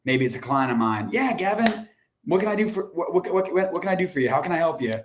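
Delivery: flustered prospect. Retold or imitated. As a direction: play a prospect caught off guard. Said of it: "the tone that they gave back was like".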